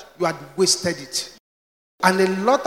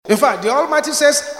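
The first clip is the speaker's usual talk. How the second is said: preaching shout; 6 semitones higher, 5 dB louder than usual. Acted. Preaching at full force.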